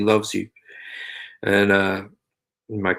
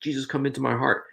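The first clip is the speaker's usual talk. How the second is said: sincere prayer; 3 semitones higher than usual. Shown as a demonstration.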